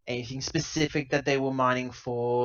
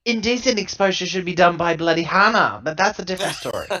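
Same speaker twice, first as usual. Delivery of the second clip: higher and louder, tossing off a rude joke; louder, higher teasing quip that speeds up at the end; cheeky joke; 6 semitones higher, 8 dB louder than usual. Real, not acted. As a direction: blurt the joke, then rush the tag line. Joking aside about Hana.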